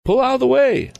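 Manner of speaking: high, loud desperate yell. A narrator's reading. Tom yells again at the wagon driver, loud desperate yell. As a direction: bellow at the driver to move. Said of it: "he yelled again".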